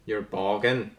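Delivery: lightly imitated Northern Irish accent. Contestant copying the quizmaster's phrase, imitated Northern Irish. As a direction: copy the Northern Irish phrase, a touch mockingly. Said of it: "That was such a good impression".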